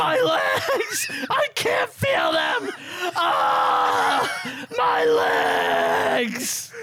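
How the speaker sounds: screaming about his legs, hammed-up; FDR impression. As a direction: wail it like FDR in pain. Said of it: "my F D R impersonation".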